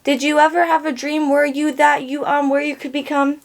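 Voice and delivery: put-on kid from a meme. Quoting a stumbling kid from a meme, lightly imitated kid voice. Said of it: "like that kid in that one meme".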